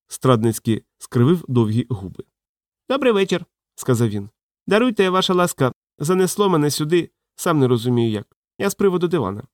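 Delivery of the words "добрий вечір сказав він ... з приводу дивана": put-on higher, apologetic old man's voice; little old man.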